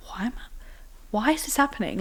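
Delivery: small voice, imitating a bewildered victim; retold helpless plea. Bullied girl in a corner questioning it to herself, small and helpless. Retells being cornered and spat at.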